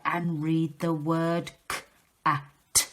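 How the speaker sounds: slow, sounded-out word to the class; slow sounding out. Shown as a demonstration. Teacher sounding out a word slowly for pupils. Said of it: "Say it faster".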